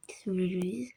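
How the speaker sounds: soft unvoiced whisper. Real, not acted. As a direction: whisper it to the viewers. Whispered aside to viewers.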